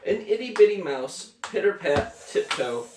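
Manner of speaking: lilting picture-book read-aloud, falling at line ends; story narration. A narrator's reading. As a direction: read a bedtime book to a small child. Reads picture book to child.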